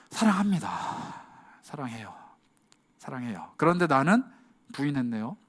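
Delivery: hushed guilty admission; ashamed confession. Acted. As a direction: confess it with your head down. Ashamed Peter answers Jesus.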